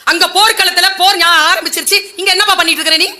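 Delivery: loud, fast scolding as the angry elder brother; mock angry scolding. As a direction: snap at the younger brother. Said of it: "கோபமா கேட்டாராம்".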